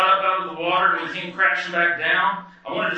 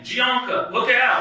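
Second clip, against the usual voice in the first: panicked shout; 6 semitones higher, slower than usual. Retold or imitated. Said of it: "I panicked and shouted out".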